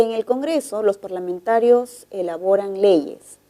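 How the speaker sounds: statement tune, falling at "leyes"; descending tone. Shown as a demonstration. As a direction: let "elaboran leyes" settle downward. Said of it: "El tono es descendente".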